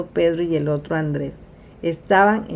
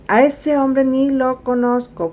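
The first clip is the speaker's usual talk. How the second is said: slow, emphatic, higher denial under oath; sworn denial; 6 semitones higher, 4 dB louder than usual. Acted. Peter swearing to the crowd he doesn't know Jesus, emphatic denial. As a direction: swear you never met him, dragging each word. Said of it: "jurándole".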